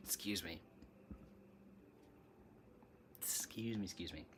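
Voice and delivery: hiccuping between words; hiccups. Real, not acted. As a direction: excuse me through hiccups. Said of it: "if I don't stop hiccuping".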